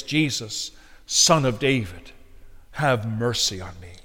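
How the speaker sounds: soft, low, measured appeal; hushed plea. Retold or imitated. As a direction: pray it quietly and low. Solemn appeal to cry to Christ.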